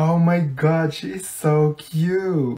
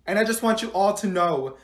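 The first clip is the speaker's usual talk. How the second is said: stern teacher; 3 semitones higher than usual. Acted. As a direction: scold the class. Teacher addresses class.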